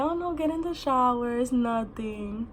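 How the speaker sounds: mock-unbothered, drawn-out reassurance; mad calm. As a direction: brush it off lightly, trailing into a slow finish. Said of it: "my mom is mad calm".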